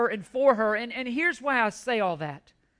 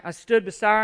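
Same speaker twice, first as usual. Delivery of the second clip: ordinary talk, nothing marked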